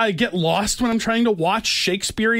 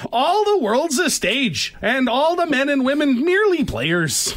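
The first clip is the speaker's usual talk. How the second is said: Canadian hoser Shakespeare; 7 semitones higher than usual. Pretend. To his cohost, playing Shakespeare as a Canadian bud, hammed-up accent. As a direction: recite Shakespeare like a small-town Canadian hoser. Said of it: "If Shakespeare wrote plays for hosers".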